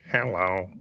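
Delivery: Stephen Hawking style robot voice; flat synthetic robot voice. Retold or imitated. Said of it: "robot voice type shit".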